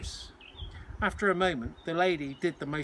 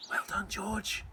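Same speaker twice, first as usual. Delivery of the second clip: soft hushed voice in the dark; a child whispering across the dark ward; whispered; 5 semitones higher, 5 dB quieter, slower than usual. Acted. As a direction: breathe the praise to stay unheard. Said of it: "someone whispered".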